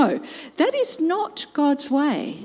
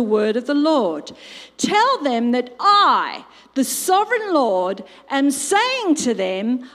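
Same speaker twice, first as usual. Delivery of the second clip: scripture reading; 3 semitones higher, 4 dB louder than usual. Acted. Preacher reads God's command to Ezekiel, proclaiming. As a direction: proclaim each phrase deliberately, with weight.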